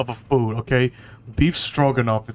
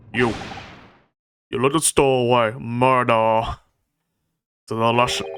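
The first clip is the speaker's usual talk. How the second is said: badly faked Russian accent; 2 semitones lower than usual. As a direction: attempt a Russian sailor's accent, clumsily. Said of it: "I cannot do a Russian accent".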